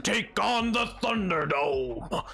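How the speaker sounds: monster truck announcer. Pretend. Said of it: "The Lord's to everybody went".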